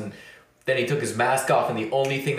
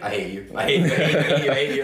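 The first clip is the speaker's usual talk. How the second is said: mock resentment; faster than usual. Squinting friend blames the teller for spoiling him, mock resentment. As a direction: mutter it over and over, half laughing. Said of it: "she squints a little and she's like".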